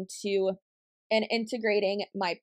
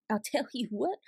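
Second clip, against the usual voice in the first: laughing; 3 semitones higher, 5 dB quieter than usual. Real, not acted.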